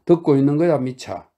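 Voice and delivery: loud, insistent call to Mitya. Acted. Grushenka insisting Mitya pay attention, a loud demand. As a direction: press him until he listens. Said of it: "고집스럽게 덧붙였다".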